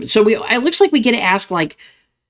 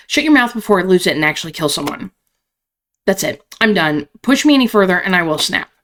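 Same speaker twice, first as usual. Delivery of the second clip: angry tough woman. Acted. Belladonna continues.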